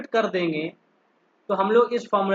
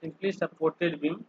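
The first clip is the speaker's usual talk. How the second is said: very slow, softer words while writing; dictating to self; 2 semitones lower, 6 dB quieter, much slower than usual. Real, not acted. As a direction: murmur it slowly as you write. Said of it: "यहाँ लिख लेते हैं". (लिखते हुए धीमे, धीरे-धीरे बोलना)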